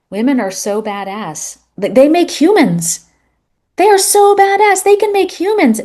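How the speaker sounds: dad gushing to his son, high and loud; enthusiastic dad. Retold or imitated. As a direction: hype them up like it's amazing. Dad praising women to son.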